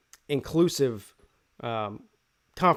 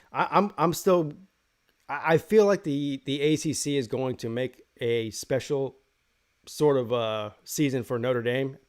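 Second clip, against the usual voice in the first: talking through hiccups and burps; hiccuping between words. Real, not acted. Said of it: "I got the hiccups and I'm burping".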